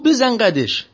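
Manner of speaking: a scared driver trying to sound bold; nervous driver. Retold or imitated. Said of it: "میلرزید".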